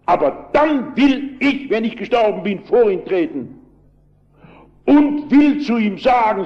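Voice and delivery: high, ringing retold shout. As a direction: build up the miner's challenge, pitched high. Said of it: "so schrie der Mann".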